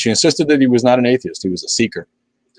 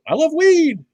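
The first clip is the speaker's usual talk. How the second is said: gleeful; slower than usual. Real, not acted. Gushing about weed.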